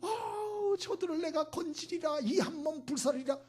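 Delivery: high, wailing would-be savior; hammed-up tearful heroic vow; mock pity. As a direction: lament as if overcome with compassion. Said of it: "불쌍히 여겨가지고".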